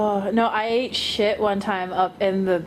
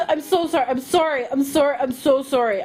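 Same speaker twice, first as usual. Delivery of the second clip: mildly flustered, repeated apology; frantic apologizing; 3 semitones higher than usual. Retold or imitated. Clumsy Canadian apologizing to the man she hit, mock flustered. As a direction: imitate yourself apologizing over and over. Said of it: "I was apologizing before I even".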